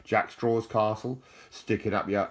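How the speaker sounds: loud, slow Alan Partridge catchphrase. Retold or imitated. Shouting an Alan Partridge line to viewers, loud and slow. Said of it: "Alan Partridge".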